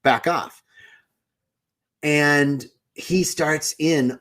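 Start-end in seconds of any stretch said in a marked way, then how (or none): 0.0-0.6 retold mild snippy retort, punched first word; mildly snippy, dropping lower midway; a little snippy. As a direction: act out a touch of irritation, telling someone off. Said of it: "now I'm getting a little snippy 'cause I'm like".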